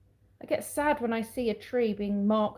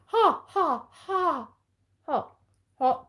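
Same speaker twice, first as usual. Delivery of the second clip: laughing; 7 semitones higher, much slower than usual. Real, not acted. Reacting to hot bite.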